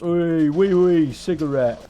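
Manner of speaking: hammed-up fake French accent; mock French. Stereotype French impression.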